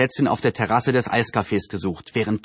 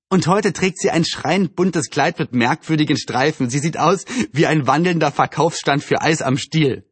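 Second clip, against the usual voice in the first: slightly lifted, amused mockery; lightly voiced gossiping Anne; 3 semitones higher than usual. Anne describes the neighbour's dress to friends, lightly mocking. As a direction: lightly poke fun as a gossiping girl.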